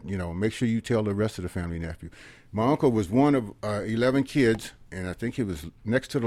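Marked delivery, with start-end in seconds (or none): 0.3-2.1 quiet plea. Retold or imitated. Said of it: "And he said".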